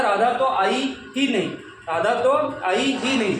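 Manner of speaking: example sentence with the weight put on ही; stress on ही. Shown as a demonstration. Teacher showing learners which word carries force, stress on ही. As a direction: lean on the word ही to show emphasis. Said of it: "ही शब्द पे जोर पड़ा".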